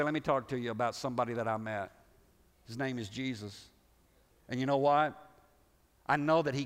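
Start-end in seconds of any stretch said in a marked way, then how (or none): 0.0-3.7 gentle invitation. Shown as a demonstration. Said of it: "you can say".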